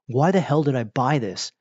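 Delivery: acted-out frustrated gamer; mock pissed off. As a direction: whine in annoyance at a purchase. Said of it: "really pissed off".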